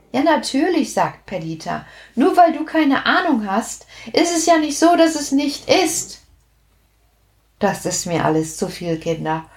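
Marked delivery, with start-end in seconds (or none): 0.1-6.2 higher witch voice, matter-of-fact; little witch. A narrator's reading. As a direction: witch brushing off doubt, higher. (kleine Hexe, selbstverständlich)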